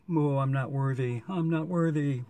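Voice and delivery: playful, drawn-out mock worship; mock reverence. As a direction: chant it in hammed-up awe, pitch lifting on the repeat. Mock bowing to candy royalty.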